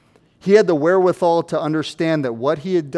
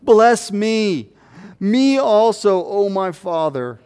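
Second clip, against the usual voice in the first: high, loud anguished plea; pleading cry; 4 semitones higher, 3 dB louder, slower than usual. Acted. Esau crying out to his father for a blessing, anguished. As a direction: beg your father through tears. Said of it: "he cried with an exceedingly great and bitter cry".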